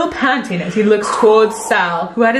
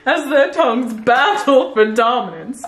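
romance read with stifled laughter; dramatic reading. Acted. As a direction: read the love scene aloud. Reading love scene aloud.

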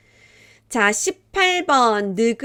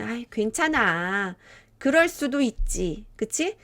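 reassuring; 2 semitones higher than usual. Acted. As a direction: comfort someone who made a mistake. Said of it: "더 잘 이해해주고".

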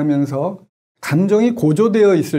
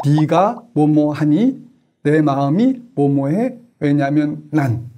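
slow calm template; slower than usual. Shown as a demonstration. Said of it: "요렇게 한번 해보세요".

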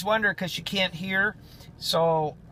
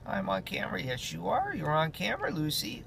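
softer, tender cooing; soft talk to the dog; 3 semitones higher, 6 dB quieter than usual. Real, not acted. Owner softly reassuring her dog Lucy on camera, tender.

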